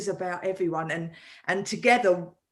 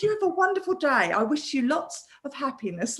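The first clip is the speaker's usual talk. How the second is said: a lightly voiced, kindly send-off; a gentle, mock-warm goodbye to the caller; kind wish; 3 semitones higher than usual. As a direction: wish him well, sweetly. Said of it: "like this".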